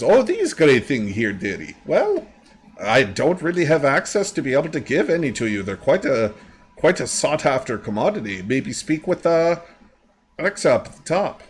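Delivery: lightly voiced lady, lifting in pitch; apologetic refusal in a lightly put-on lady voice; dearie-calling shop lady. Shop lady turns down a buyer, lightly acted voice.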